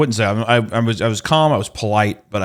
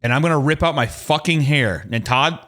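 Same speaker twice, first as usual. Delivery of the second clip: higher-pitched exasperated rant; mock heated; 4 semitones higher than usual. Customer venting at the technician in rehearsal, mock heated. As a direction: rant at the end of your rope. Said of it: "I know I'm getting heated".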